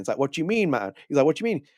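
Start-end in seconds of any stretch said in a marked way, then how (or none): 0.2-0.9 high-pitched mock Jamaican accent; comic Jamaican accent, pitched up. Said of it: "all came out like a Jamaican accent". 1.3-1.7 high-pitched mock Jamaican accent; comic Jamaican accent, pitched up. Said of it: "all came out like a Jamaican accent".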